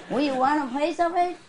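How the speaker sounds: lightly put-on folksy offer, lifting at the end; neighbor impression. Neighbor offering a piece of fish, folksy impression. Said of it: "I talk like the people, the neighbors".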